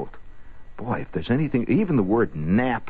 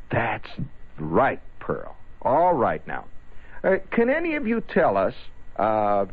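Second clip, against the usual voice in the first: teacher voice; 5 semitones higher, slower than usual. Retold or imitated. Teacher drawn-out question, high.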